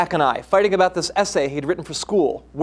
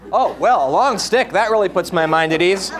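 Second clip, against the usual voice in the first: sarcastic; 5 dB louder than usual. Acted. Mother mocking son's answer.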